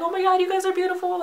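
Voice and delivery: high-pitched starstruck gush; fangirl gushing. Retold or imitated. Fan complimenting the band she just met, re-enacted gushing. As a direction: gush it in a squeaky, giddy fan voice.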